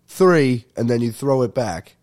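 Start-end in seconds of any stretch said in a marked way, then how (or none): 0.1-0.7 jumps straight to three, a bit louder; rushed count. Retold or imitated. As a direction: skip the count and bark three. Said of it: "and you go".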